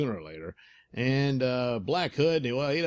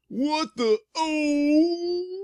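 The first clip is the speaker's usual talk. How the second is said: startled yelp; 6 dB louder, much slower than usual. Acted. Thug grabbed by Markov.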